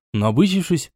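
usual speaking voice

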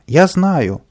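high, loud insistence; childish yell from above; shouting. A narrator's reading. Boy up a pole insisting he knows, shouting. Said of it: "прокричал сверху Каприска".

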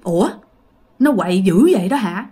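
understated, unfazed grandmother; tỉnh bơ, xanh rờn. Acted. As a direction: ask it matter-of-factly, low. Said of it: "nói một cái câu xanh rờn như vậy". (giọng bà nội tỉnh bơ)

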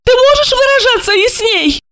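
high, insistent woman's pleading. A narrator's reading. Alexandra demands explanations from Gorokhov, high and insistent. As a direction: press him for answers.

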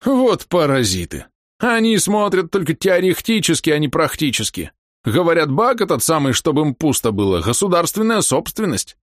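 put-on high, indignant old man ranting; furious old man. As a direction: vent at the stupid officials. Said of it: "возвратился взбешённый".

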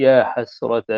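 "يا حسرة" said as "يا حسرتا", ending on the alif. Shown as a demonstration. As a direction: end "حسرة" on a long a. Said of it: "هكذا بالألف". ("يا حسرتا" بإثبات الألف)

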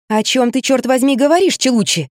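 groggy high protest, just woken; jolted out of sleep, annoyed; rudely awakened. Acted. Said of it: "сразу после пробуждения".

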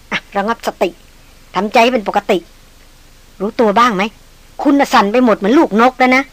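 calm him down gently, like to a trembling bird; a soothing woman comforting her shaken partner; soothing and tender. Acted. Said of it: "น้ำเสียงนั้นปลอบโยน อ่อนหวาน".

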